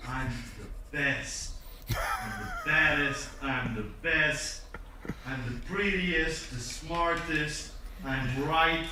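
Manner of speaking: slow, drawn-out bragging, a light send-up; lightly voiced self-praise, savoring each boast; mock boastful president. Podcast guest mocks a boastful president, slow bragging. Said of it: "do what your president would do".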